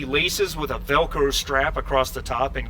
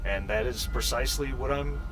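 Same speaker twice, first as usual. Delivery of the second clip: halting, subdued synthetic person; lightly voiced android; 4 dB quieter than usual. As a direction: explain yourself hesitantly, with gaps. Game master plays synthetic Leslie.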